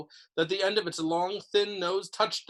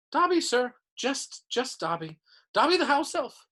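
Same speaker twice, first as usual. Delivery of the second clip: high, louder elf voice full of awe; high-pitched reverent house elf; adoring house elf; 8 semitones higher, 3 dB louder than usual. A narrator's reading. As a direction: gush like a devoted little servant. Dobby introduces himself.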